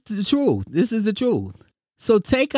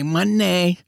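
J J impression. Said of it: "I might even say like J J".

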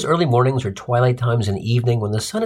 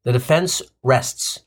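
slow, measured mock-legal declaration; courtroom closing statement; slower than usual. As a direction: close your case slowly. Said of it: "I said as I walked back".

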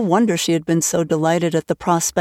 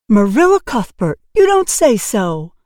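in distress; 3 semitones higher, 4 dB louder than usual. Acted. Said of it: "said Missus Spencer in distress".

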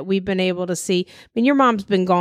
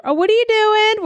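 imitating mother-in-law; 13 semitones higher, 4 dB louder than usual.

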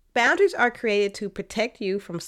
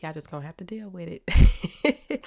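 stuffy nose from sinuses; congested, blocked-up nasal sound; 4 semitones lower than usual. Real, not acted. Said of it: "I sound a little nasally today".

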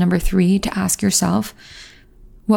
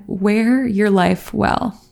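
teary; much slower than usual. Real, not acted. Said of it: "Sorry, I just got really teary".

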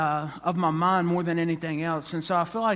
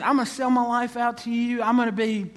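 higher, eager promise; enthusiastic, lifted voice; excited follower; 5 semitones higher than usual. Acted. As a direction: pledge yourself with excitement. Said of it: "this person is very excited".

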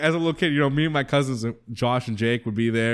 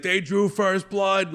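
slow, higher, aggrieved quote; imitated Rambo; 5 semitones higher, much slower than usual. Quoting Rambo's breakdown to friends, slow mock anguish. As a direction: drag it out like a wounded soldier.

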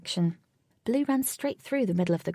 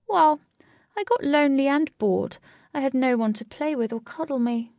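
higher, emphatic, self-pitying cat voice; plaintive cat; 6 semitones higher, 5 dB louder than usual. A narrator's reading. Lonely cat excuses itself to the children, plaintive. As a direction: plead loneliness as a big cat, pitched up.

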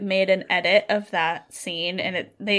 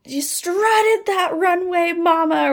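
higher, slow, breathy sass; sassy TikTok voice; 6 semitones higher, slower than usual. Retold or imitated. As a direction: hype someone up like a TikTok. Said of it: "what is that freaking TikTok".

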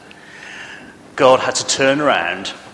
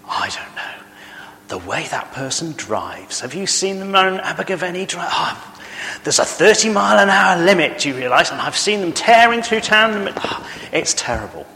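indignant busybody tutting about driving; complaining neighbour; 7 semitones higher than usual. Acted. Preacher playing a neighbour griping about driving, indignant. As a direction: fuss over the speeding like a curtain-twitcher.

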